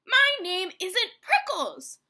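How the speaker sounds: high, loud, slow protest; indignant yell. A narrator's reading. Hank corrects the jackrabbit's nickname, yelling indignantly. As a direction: yell back, drawing out each word. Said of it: "Hank yelled back".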